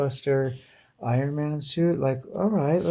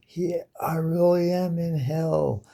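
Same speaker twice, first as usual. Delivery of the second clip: mild despairing Hulk; 6 semitones higher than usual. Retold or imitated.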